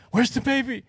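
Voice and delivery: high, searching sleepwalker voice; mock sleepwalking mom; mom's sleepy question. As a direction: ask it like a lost sleepwalker.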